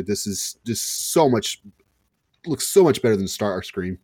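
talking while half choking; words squeezed out through a choke. Real, not acted. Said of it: "Sorry, I keep, like, choking myself".

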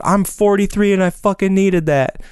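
high-pitched imitation of a yelling concertgoer; imitated heartfelt yell. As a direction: call it out from the heart, without full volume. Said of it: "guy behind me just yells out".

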